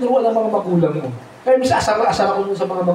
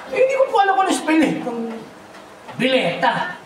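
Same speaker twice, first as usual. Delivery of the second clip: 1 sister's meek reply; 5 semitones higher than usual. Retold or imitated. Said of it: "sister answers scolding father".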